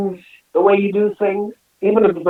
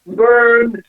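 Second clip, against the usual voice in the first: louder triumphant Wrong and Burned; triumphant gotcha; gleeful exclamations; 5 semitones higher, 5 dB louder than usual. Real, not acted. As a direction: call it out like a gotcha. Gleeful punchline about cheating husband.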